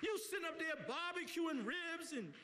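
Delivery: impassioned appeal to the crowd; urgent community sermon; preaching. Real, not acted. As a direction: preach it with feeling, phrase by phrase.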